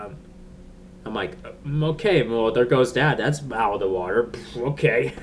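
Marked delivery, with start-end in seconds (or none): 1.6-5.1 mock acceptance. Acting out own amused reaction.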